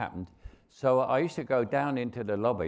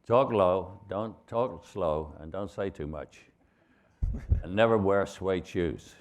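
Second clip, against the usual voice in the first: slow, drawn-out film-star advice; a hint of slow cowboy-star delivery; John Wayne; slower than usual. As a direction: lightly imitate a veteran star advising a newcomer. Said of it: "And he said".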